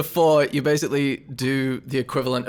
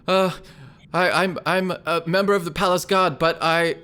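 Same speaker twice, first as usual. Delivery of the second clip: nervous stammer, tripping on words; stammering nervously; 5 semitones higher than usual. Acted. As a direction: stammer it out in fear. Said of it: "He starts to stammer that out".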